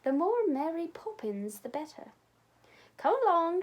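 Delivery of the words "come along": a stern, brisk call; loud stern summons to the children. A narrator's reading. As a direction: clip it out firmly, no nonsense. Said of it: "she said sternly".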